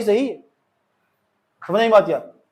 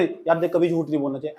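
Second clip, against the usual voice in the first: soft heartfelt advice; 4 semitones lower, 6 dB quieter than usual. Shown as a demonstration. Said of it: "ऐसे नहीं बोले".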